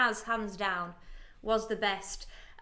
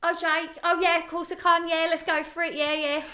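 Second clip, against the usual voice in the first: lightly put-on eager girlfriend voice; slightly raised, playful mimicry; Liberty; 4 semitones higher than usual. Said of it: "can you do a good Liberty?".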